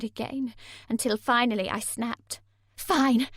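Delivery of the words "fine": cried out. A narrator's reading. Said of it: "I cried".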